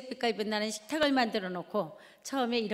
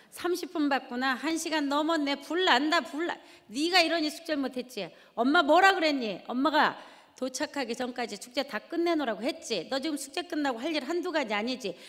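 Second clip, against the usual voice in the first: scolding mother; 4 semitones higher than usual. Retold or imitated. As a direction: snap at the kids over the hot TV. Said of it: "그리고 쏘아붙입니다".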